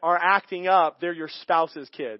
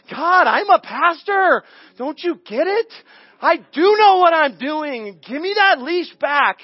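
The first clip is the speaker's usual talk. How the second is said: much higher and louder, slow pleading protest; indignant protest; 8 semitones higher, 8 dB louder than usual. Retold or imitated. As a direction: insist you know best. Arguing with God.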